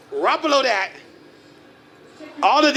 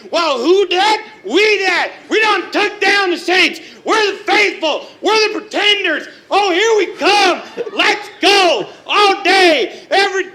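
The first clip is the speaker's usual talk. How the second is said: 1 fan cheering; 4 dB louder than usual. Real, not acted. Celebrating win over the Saints.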